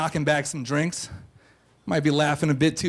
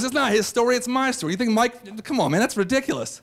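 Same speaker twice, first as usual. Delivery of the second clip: higher-pitched, exasperated objection; imitated indignant protest; 5 semitones higher than usual. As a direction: protest like a wronged friend, pitched up. Acts buddy's angry objection.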